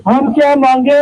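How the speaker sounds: shouted slogan call; booming political rally speech. Real, not acted. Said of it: "मेरे नारों का जवाब देंगे".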